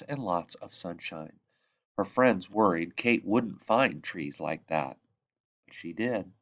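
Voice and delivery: lively read-aloud, bright lifts at each new line; storytelling voice. Acted. Reading The Tree Lady aloud to children, storytelling voice. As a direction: tell it like a bedtime picture book. Reads picture book to children.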